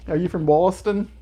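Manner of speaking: bad Boston accent. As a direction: try a clumsy Boston accent. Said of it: "I have a really terrible Boston accent".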